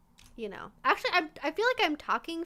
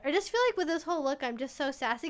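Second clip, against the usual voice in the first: ordinary talk, nothing marked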